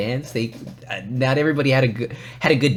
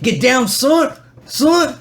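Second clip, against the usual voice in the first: high, loud mock cheer; hammed-up dance-floor encouragement; playful hyping; 14 semitones higher, 6 dB louder, much slower than usual. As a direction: egg on a dancer in a squeal.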